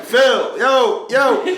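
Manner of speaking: loud, high retold calls for attention; calling out. Retelling calls to Phil over FaceTime, urgent calling out. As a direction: call to a friend who stopped listening.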